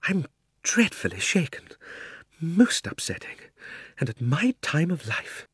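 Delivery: put-on high, halting old uncle; rattled uncle talking to himself; shaken self-talk. A narrator's reading. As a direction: pity yourself in a high, slow voice. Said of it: "he said to himself".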